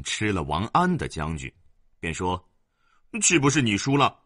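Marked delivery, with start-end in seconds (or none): 3.2-4.2 put-on higher and louder, a gloating kid; gloating little boy; smug boy. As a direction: crow over the win. Boy claims victory.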